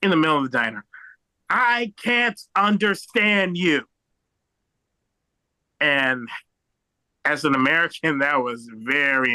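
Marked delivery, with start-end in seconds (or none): 1.5-3.9 slow, drawn-out mock shout; high, word-by-word yell without full volume; dad shouting. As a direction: imitate an exasperated dad calling across a diner. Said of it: "my dad just shouts out".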